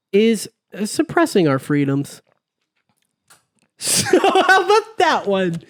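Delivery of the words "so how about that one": mock voice. Mocking voice after laughing.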